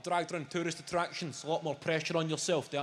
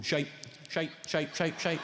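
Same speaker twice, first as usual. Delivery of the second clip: inner voice muttering. Retold or imitated. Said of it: "that voice in there, going".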